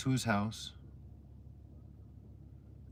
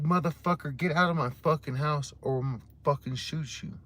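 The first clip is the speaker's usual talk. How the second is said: higher, louder threat; angry yell; 5 semitones higher, 4 dB louder than usual. Retold or imitated. Homeowner threatening the intruder, angry yell. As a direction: bark him out of the house.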